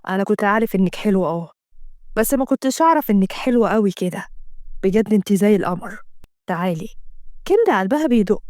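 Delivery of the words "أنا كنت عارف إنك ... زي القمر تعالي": lower, lightly voiced tender lover; a man coaxing her close; lightly voiced smitten man; lower man's voice. Assem voiced, wooing Kenda.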